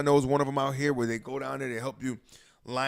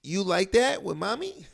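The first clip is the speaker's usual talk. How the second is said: high, slow teasing purr; mock sultry voice; 7 semitones higher, slower than usual. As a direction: coo it like a seductive tease. Mocking a guy's pillow talk.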